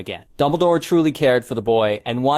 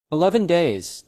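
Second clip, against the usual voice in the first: thoughtful musing; 6 semitones higher than usual. A narrator's reading. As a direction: turn it over thoughtfully. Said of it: "Dumbledore mused thoughtfully".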